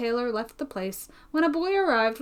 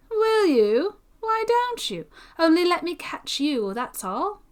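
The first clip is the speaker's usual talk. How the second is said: taunting threat; 9 semitones higher, slower than usual. A narrator's reading.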